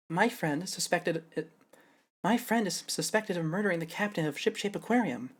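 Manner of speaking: a fresh take on her line; retried Sasha voice. Shown as a demonstration. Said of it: "retried Sasha voice".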